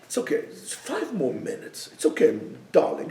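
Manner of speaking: a soft, coaxing lull; soothing inner voice. Retold or imitated. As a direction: tempt gently like a mother. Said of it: "that's the voice that goes in our heads".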